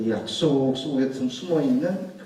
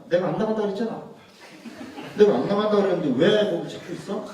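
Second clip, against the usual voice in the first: wife's voice; 5 semitones higher than usual. Retold or imitated. Wife scolding him, laughing.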